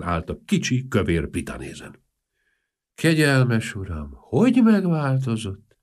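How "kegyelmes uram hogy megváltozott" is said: slow, mournful lament; a touch of sorrow, drawn out; mild sad exclamation; sadly. Acted. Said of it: "mondta szomorúan".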